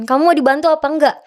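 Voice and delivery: retold challenge with a pointed lift; pressing official. Athlete mimicking the NOC official's offer, pressing tone. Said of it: "Dengan nada ngomongnya kayak gitu".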